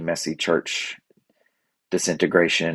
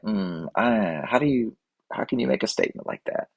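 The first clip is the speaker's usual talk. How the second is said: derisive; 3 semitones higher, 5 dB quieter than usual. Retold or imitated. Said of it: "I don't mean to say that with such derision".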